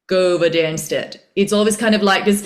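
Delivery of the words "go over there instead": calm inner voice. Retold or imitated. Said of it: "it's normally actually quite a calm voice".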